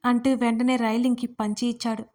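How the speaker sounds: usual speaking voice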